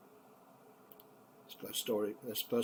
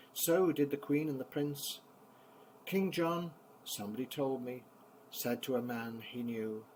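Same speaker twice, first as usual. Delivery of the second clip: bouncy, rhythmic nursery-rhyme reading; poem recitation to children; 3 semitones higher than usual. Acted. Grandpa reciting a favourite poem to the grandkids, rhythmic and lively. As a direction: give the refrain a lively bounce.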